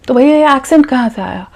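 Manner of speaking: lightly voiced interviewer challenging the candidate; imitated interviewer. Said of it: "The interviewer would ask you".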